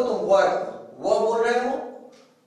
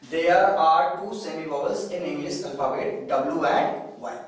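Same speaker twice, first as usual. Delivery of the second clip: slow dictation; 4 semitones lower, much slower than usual. Shown as a demonstration. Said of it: "दो semi vowels होते हैं।".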